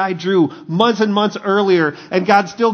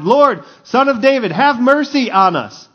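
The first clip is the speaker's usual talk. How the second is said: raised, higher-pitched cry for mercy; shouted plea; 7 semitones higher, 5 dB louder than usual. Acted. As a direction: call out to be heard over a crowd. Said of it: "they shouted".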